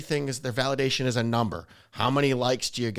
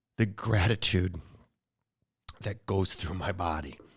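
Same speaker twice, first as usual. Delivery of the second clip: emotional, crackling, breaking voice, lower; 6 semitones lower than usual. Telling another speaker about finding inner peace, voice crackling with emotion. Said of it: "you can hear my voice crackling".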